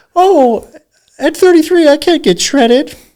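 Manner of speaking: squeaked out high and loud. You say you're not a great impersonator, but try a Mickey Mouse voice. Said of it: "that's Mickey Mouse".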